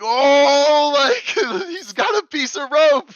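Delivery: high, loud imitation of excited kids cheering. Kids cheering the swimmer's rope piece, high imitated cheer. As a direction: cry it out like a crowd of cheering kids. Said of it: "the kids cheer".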